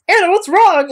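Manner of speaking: alarmed Christian. Acted. Christian voiced louder, alarmed.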